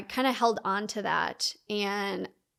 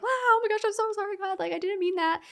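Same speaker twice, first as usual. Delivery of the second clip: much higher, flustered 'oh my gosh' apology; mock panicked apology; 11 semitones higher, faster than usual. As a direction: squeak out a frantic sorry to God. Panicked apology to God, retold.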